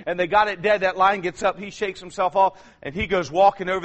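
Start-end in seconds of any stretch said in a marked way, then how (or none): none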